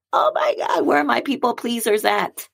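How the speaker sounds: exclamation. Real, not acted. Exclaims at own past.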